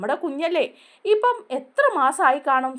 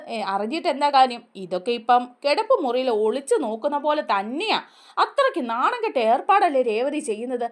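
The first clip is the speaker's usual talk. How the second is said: angry outburst; 3 semitones higher, 3 dB louder than usual. Retold or imitated. Sruthi telling Revathi off for snooping, angry and loud. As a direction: tell her off for prying.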